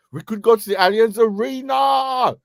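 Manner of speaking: loud, hyped call; excited shout. Real, not acted. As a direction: shout it out like a chant. Hyping the destination.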